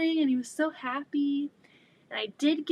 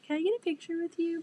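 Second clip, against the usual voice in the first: mock lame request; 7 semitones higher, faster than usual. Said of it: "that's such a lame thing".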